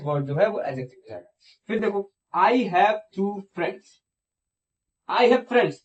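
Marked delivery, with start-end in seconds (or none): 2.4-3.9 very slow, spelling out each word; slow example read. Shown as a demonstration. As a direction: read it out slowly for the class. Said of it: "मेरे पास दोस्त हैं". (धीरे-धीरे उदाहरण पढ़ना)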